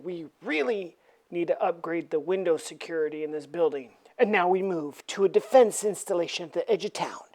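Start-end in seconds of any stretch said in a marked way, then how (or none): 0.0-4.0 muttered aside. Acted. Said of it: "The Fantastic Four are saying".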